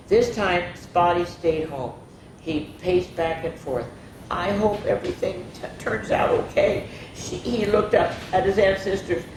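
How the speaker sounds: lively picture-book reading; expressive bedtime-story narrator; story read-aloud. A narrator's reading. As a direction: read it to children, voicing each animal lightly.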